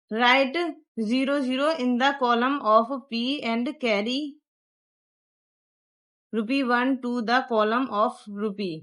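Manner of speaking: slow dictation pace reading the rule; textbook reading. Shown as a demonstration. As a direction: read it out slowly so pupils can copy. Reads textbook step aloud.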